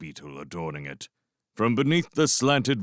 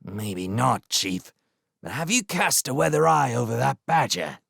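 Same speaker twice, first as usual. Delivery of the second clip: anxious; 4 semitones higher than usual. Acted. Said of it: "gnawed anxiously on a split claw".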